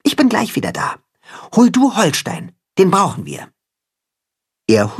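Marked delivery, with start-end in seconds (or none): 0.0-3.5 bright, high little cat-hen, eager; high kitten-hen voice. A narrator's reading. Timme's voice, kitten-hen character.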